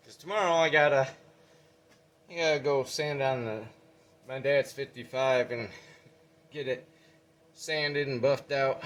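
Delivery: panting between phrases; winded after climbing, gasping words out; out of breath. Real, not acted. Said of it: "I'm out of breath".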